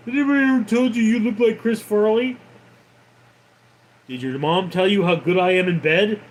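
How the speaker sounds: mock pestering, rapid-fire questions; hurried mocking quote of a nuisance; annoying pest imitation. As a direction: rattle it off like an annoying chatter. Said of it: "You have no idea how annoying it is".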